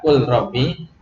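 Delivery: "Kul robbi" with a distinct, unmerged l; izhar reading. Shown as a demonstration. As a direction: keep l and r apart in "Kul robbi". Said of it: "Kenapa tidak dibaca izhar?". ("Kul robbi" dibaca izhar, lamnya jelas)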